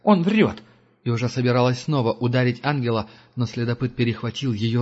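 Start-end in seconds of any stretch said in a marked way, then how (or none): 0.0-0.6 scornful, louder outburst; snorted. A narrator's reading. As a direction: snort it off and accuse. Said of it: "фыркнула Герда".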